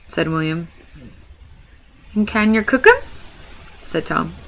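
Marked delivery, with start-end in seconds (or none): 2.1-3.0 hungry troll. Acted. Tom asks about eating.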